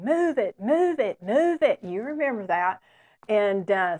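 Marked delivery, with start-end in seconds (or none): 0.0-1.8 rising, louder mock barked orders; drill sergeant shout. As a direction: bark it like a drill sergeant getting louder each time. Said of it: "he would be shouting".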